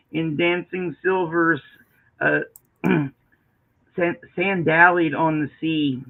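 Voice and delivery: measured recitation with lingering phrase ends; poetry reading. Acted. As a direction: read the poem aloud, pausing between phrases. Continues reading the poem aloud.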